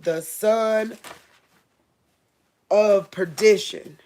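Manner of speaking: slow, emphatic Bible reading; measured preacher reading from the Bible; scripture reading. Real, not acted. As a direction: read the verse out slowly and solemnly, drawing out the key words. Reads scripture aloud to listeners.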